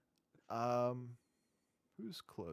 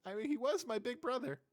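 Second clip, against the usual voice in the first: whiny imp voice; 11 semitones higher than usual. Acted.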